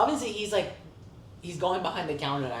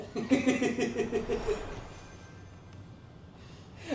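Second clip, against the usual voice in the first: laughter; 9 semitones higher than usual. Real, not acted. Laughing at the maga video.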